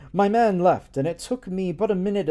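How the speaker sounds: ordinary delivery, nothing marked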